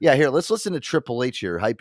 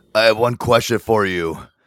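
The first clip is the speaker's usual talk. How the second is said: put-on straining wrestler voice, louder; 5 dB louder than usual. Mocking a played wrestling promo, repeating its line: Triple H voice, mock straining. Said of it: "as I'm taking this huge duty right now".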